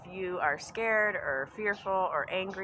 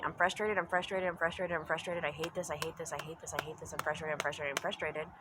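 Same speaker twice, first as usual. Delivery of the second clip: frustrated looping thoughts; 2 semitones lower than usual. Acted. Acting someone stuck in their thinking, frustrated chant. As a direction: repeat it without a break, fading as you go. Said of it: "if you're sitting here thinking".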